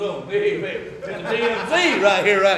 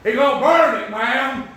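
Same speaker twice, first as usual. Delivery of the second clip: a light Tennessee hillbilly drawl on "He gonna burn it"; blunt Tennessee country warning to the doctor; 5 semitones higher, 3 dB louder than usual. Retold or imitated. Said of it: "pull a little Tennessee hillbilly language".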